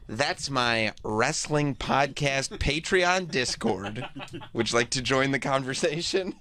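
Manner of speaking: slow, smiling mock-proud announcement; smug smile. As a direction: savor it slowly, with playful pride. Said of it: "I get to smile and turn and say".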